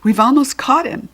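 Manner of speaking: out of breath, excited; breathless from the sprint; panting. A narrator's reading. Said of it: "said Kirsty, panting".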